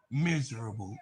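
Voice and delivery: soft, quiet imitation of an Australian accent; a quiet, laughing take on an Australian accent. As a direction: mimic her Australian accent, hushed and laughing. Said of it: "in that Australian accent".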